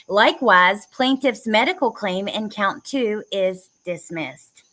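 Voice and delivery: measured, deliberate ruling read; formal legal reading. Acted. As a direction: read it like a judge's order. Reading court ruling aloud.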